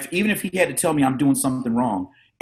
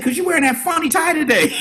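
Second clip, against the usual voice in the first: higher, laughing through the words; laughing kid. Retold or imitated. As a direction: giggle it out as the cheeky kid. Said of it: "I said".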